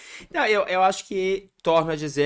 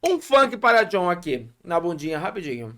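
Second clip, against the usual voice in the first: mouth full; 3 semitones higher, 5 dB louder than usual. Real, not acted. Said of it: "Eu comendo e falando de boca cheia".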